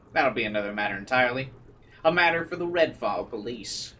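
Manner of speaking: lightly voiced attorney in a Southern accent; a smug divorce lawyer with a hint of country twang; mild Southern accent letter read. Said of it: "bad at the accent".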